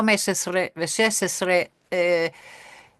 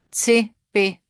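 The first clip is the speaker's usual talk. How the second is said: "Tsipi" whispered, unvoiced and higher; 5 semitones higher, 4 dB louder than usual. Shown as a demonstration.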